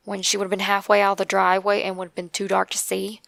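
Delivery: ordinary delivery, nothing marked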